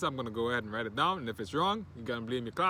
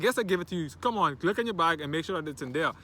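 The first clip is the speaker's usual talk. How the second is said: acted insistence; 4 semitones higher, 5 dB louder than usual. Acted argument, teacher insisting.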